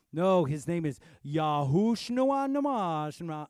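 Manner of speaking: mocking a pedant. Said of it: "And they're like".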